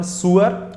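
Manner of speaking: सुअर said as soo-ur, no v sound; correct pronunciation. Shown as a demonstration. Teacher to students: सुअर said carefully as soo-ur. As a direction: say सुअर as soo-ur, rising at the end. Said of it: "And third one".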